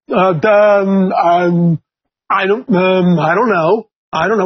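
low, halting imitation of a stumped kid; nervous student. Student quizzed on grandparents' origins, mock nervous and hesitant. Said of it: "they get real nervous".

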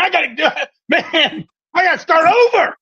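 a hint of God sighing he must start over; God's voice.

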